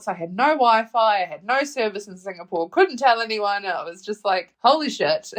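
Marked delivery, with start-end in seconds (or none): 4.6-5.3 laughing "Holy shit" in disbelief. Retold or imitated. Stuck without Wi-Fi on the plane: laughing disbelief. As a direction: chuckle it out, stunned.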